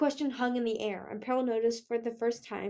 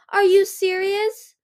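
loud, high, slow outburst; roar; 10 semitones higher, 9 dB louder, slower than usual. A narrator's reading. Winter challenges Moon over Darkstalker, roaring. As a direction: yell it in slow disbelief. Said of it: "Winter roared".

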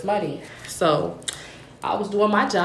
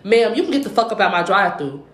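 re-enacting a curt dismissal, mildly heated; retold firm telling-off; 3 dB louder than usual. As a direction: tell off a rude customer, controlled. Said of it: "I said it just like that".

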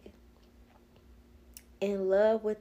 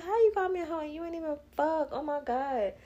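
retold indignant comeback; 8 semitones higher, 4 dB quieter than usual. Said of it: "I'm like".

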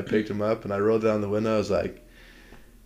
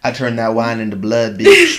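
hammed-up Jesus boast ending in a shout; mock Jesus; 7 dB louder than usual. Host jokes as Jesus about the wine turning to blood, mock boast. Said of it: "They call me Jesus".

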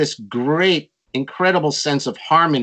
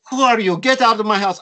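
mock angry host; 8 semitones higher, 4 dB louder than usual. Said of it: "he said".

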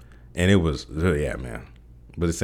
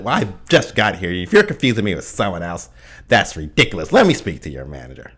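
white voice impression. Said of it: "impersonation of a black person with a white voice".

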